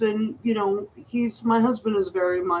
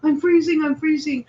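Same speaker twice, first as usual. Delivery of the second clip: mock whining; 5 semitones higher, 4 dB louder than usual. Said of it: "always crying and complaining".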